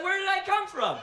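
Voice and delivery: put-on high, small child voice asking; innocent little girl. Six-year-old daughter asking daddy, high innocent child voice. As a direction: ask it wide-eyed like a little girl. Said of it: "She was like".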